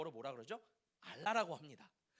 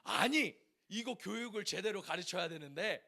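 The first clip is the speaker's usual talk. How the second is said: imitating irate father. Father hearing the children's argument about religion, mildly acted exasperation. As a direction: burst in as a riled dad, then grumble it out. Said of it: "아버지가 열불이 나셨대요".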